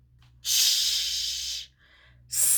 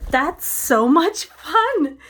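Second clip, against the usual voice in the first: excited; 4 semitones higher, 4 dB louder, much slower than usual. Acted. Teacher delighting in the game.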